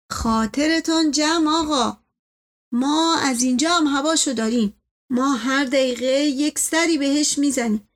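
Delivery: lightly voiced deferential servant; reassuring servant. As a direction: reassure the master, slightly lifted voice. Servant figure reassures his master.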